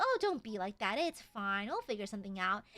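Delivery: low, easy soothing; chill reassurance. Retold or imitated. Chill veteran calms sulking coworker, in a low relaxed voice. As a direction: imitate an unbothered coworker smoothing it over. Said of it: "all sunshines and rainbows, just straight chilling".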